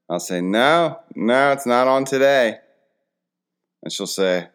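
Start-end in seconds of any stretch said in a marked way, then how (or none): 0.4-2.6 high, loud retold denial; mock-exasperated dad, pitched up; insistent dad reply. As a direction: explain it emphatically to a child. Dad answers daughter in retold exchange.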